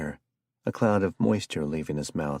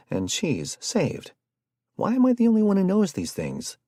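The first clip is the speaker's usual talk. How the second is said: put-on lightly raised conspiracy-minded young man; excitable Jared; 4 semitones higher than usual. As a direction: sell the curse theory with eager alarm. Jared's voice in story.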